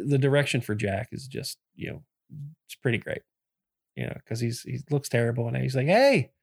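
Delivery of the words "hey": high, loud casual hey; chilled-out. Retold or imitated. Friend in a good mood asking for toast, chilled out. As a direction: imitate a laid-back pal casually asking. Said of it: "he's just like, chilling out".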